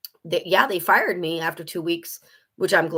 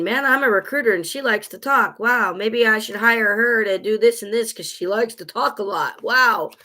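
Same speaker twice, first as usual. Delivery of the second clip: higher, louder, excited recruiter voice; impressed recruiter; 4 semitones higher, 3 dB louder than usual. Pretend. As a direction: play an eager, impressed recruiter.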